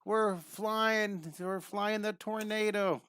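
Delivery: playful, stretched-out cry of a flyer; gleeful cartoon rider. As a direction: voice a little character whooping it up mid-flight. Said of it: "we're gonna put little characters like".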